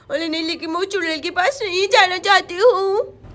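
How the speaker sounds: lightly voiced lisping child; worried little girl. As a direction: fret aloud with a touch of fear. Frightened Sonam talks to herself. (घबराई तोतली बच्ची)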